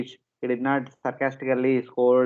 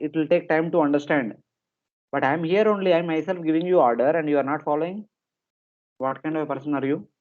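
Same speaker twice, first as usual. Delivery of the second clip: raised, quick scolding king's voice, a mock tirade; angry king; 3 semitones higher than usual. King scolding carriers who disobey his order, mock anger. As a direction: play the furious king scolding his servants. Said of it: "directly become angry and shout at him".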